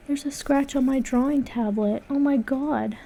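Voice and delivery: high, distressed discovery; dismayed. Real, not acted. Artist finds a scratch on her drawing tablet, dismayed.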